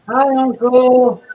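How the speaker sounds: exaggerated nephew voice. Nephew greeting his uncle, hammed-up and slow. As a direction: stretch it out like a pitiful kid.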